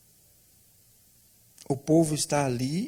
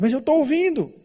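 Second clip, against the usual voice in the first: high, loud alarmed protest; 13 semitones higher, 7 dB louder than usual. Acted. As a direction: burst out in disbelief. Barrabás protests to the guard. (Barrabás protestando ao guarda, alto e alarmado)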